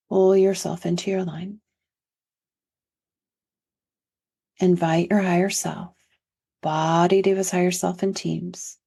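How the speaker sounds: incantatory guided-session voice with long pauses; guided energy protocol. Acted. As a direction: lead listeners through a healing ritual. Leads an energetic healing protocol.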